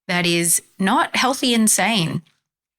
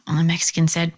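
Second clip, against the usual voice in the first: ordinary delivery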